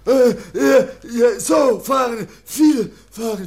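loud, half-sung eager cry; excited childlike outburst. Acted. Kaspar eagerly confirming the horse ride. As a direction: blurt it out singing with joy.

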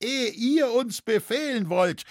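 sharp high-pitched call; shouting. A narrator's reading. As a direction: cry out a challenge. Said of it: "schrie ein Dritter".

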